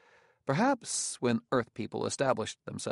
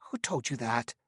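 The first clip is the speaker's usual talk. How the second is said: choked, tight voice; words squeezed out, throat closing; strangled voice. Acted. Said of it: "He said in a choked voice".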